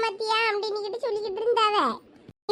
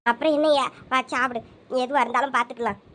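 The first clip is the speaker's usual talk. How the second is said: low, gentle coaxing of a grieving son; tender mother; 6 semitones lower than usual. Acted. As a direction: soothe him like a mother holding back tears. Mother coaxing tearful son to eat.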